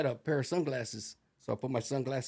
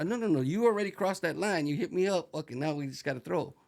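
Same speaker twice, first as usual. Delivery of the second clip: acted confrontation; 5 semitones higher than usual. Acted street confrontation, refusing to back down.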